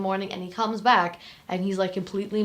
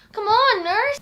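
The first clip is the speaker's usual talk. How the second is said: high, loud cry for the nurse; hammed-up shout for help; mock urgent call; 14 semitones higher, 5 dB louder, slower than usual. Acted outcry from the film.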